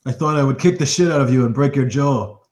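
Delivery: mild mock menace toward the rival; threat. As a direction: spit it out like a brawler itching to fight. In-character threat at table.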